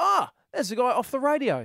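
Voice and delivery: fake British accent, very high, swooping and sing-song. Imitating a listener spotting a name on a bill: put-on British accent. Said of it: "With a British accent".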